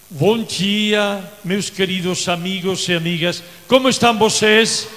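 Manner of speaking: Portuguese greeting, rising to a cheer. Shown as a demonstration. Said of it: "ma salutation en portugais".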